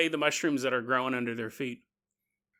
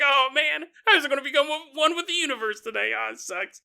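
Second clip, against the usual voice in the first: mock disappointment; 10 semitones higher, faster than usual. Acting disappointed person on street corner.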